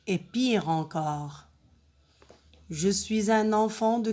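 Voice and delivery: measured poem recitation with pauses between lines; poem reading. Shown as a demonstration. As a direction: read the poem aloud line by line, deliberately. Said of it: "je vais d'abord lire le poème". (lecture de poème, posée, vers par vers)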